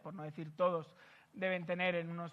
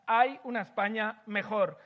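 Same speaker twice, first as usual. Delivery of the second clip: "Hay una España mejor" called out a bit louder; mild mock shout; 6 dB louder than usual. Speaker voicing taxpayers, a mild mock shout. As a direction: lightly cry it out like an angry taxpayer. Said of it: "Y gritan".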